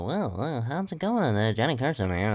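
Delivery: bouncy host voice with swooping pitch; Johnny Carson. Acted. Working out an impression, weird talk-show host voice. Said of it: "All the weird Johnny Carson voice".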